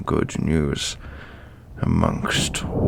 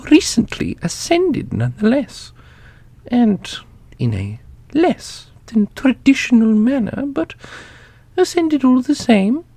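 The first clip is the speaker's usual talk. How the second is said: much higher, lighter voice for the ancient custodian; custodian character voice; 5 dB louder than usual. Acted. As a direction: play the custodian with a high, lofty, amused tone.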